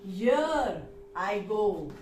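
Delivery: here I go, with the stress on here and slowed down. Shown as a demonstration. Teacher showing students the stress on here. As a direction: lean on here, then let I go fall away. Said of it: "I have paid stress on here".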